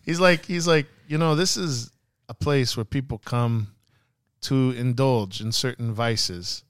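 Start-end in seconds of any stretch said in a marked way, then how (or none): 1.1-6.6 slow, measured boss explaining the house; deliberate, drawn-out villain delivery; imitated crime boss. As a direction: spell it out slowly, in careful English. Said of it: "he says it just like this".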